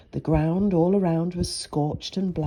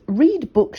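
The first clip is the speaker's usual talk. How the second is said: bossy big sister; 7 semitones higher, 5 dB louder than usual. Acted. Big sister voiced in story.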